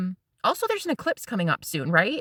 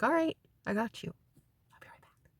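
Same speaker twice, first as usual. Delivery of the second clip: hushed, easy-going reassurance; quietly, like a chill boyfriend; murmured reply to his girlfriend; soft boyfriend voice; 9 dB quieter than usual. Retold or imitated. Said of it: "He's like".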